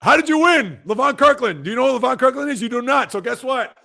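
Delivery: high, loud and fired up; fired-up challenge. Real, not acted. Streamer challenging a chatter who claimed he won, fired up and loud. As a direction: demand it like a playful trash talker.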